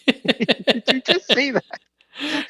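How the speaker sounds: high, very drawn-out raspy imitation; Super Dave. Guest challenging what was just said, slow raspy disbelief. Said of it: "he does that raspy voice".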